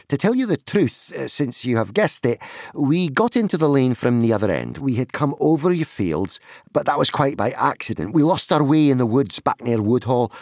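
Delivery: high hobbit voice, hurrying at the end; explaining young hobbit. Acted. Pippin admitting the shortcut to the farmer, explaining hobbit voice.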